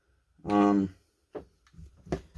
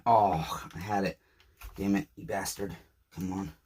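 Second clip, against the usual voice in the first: frustrated muttering; 3 semitones lower, 5 dB quieter than usual. Real, not acted. Part slips while fixing saw.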